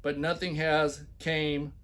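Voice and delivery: loud, hammed-up reading of the ad; mock emphatic reading. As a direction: read it like a pompous boss. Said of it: "when I put heavy accents and shout".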